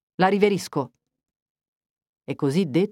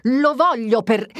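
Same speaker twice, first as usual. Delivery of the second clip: louder, higher, slower outburst; raised, slowed cry of anger; shouted; 4 semitones higher, 3 dB louder than usual. Acted. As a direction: let it burst out of him. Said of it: "gridò".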